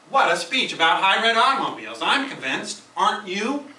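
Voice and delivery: enthusiastic hook. Shown as a demonstration. Evaluator opening with an excited hook. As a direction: sell it like you were truly won over. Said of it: "your introduction might say something like".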